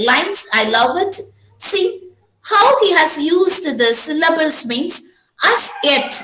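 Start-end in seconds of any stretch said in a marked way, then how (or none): 5.5-6.1 "as yet" set apart, starting on an unstressed "as"; teacher isolating "as yet" to show the meter; iambic stress demonstration. Shown as a demonstration. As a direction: say "as yet" as one separate metrical foot. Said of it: "unstressed syllable".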